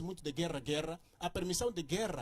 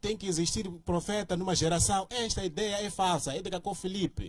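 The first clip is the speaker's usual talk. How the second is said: loud, forceful debating delivery; real raised voice; 4 dB louder than usual. Real, not acted. Debater rebutting a companion's claim about prophets, loudly. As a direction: speak up forcefully, almost shouting the argument. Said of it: "desculpa, eu falo a gritar".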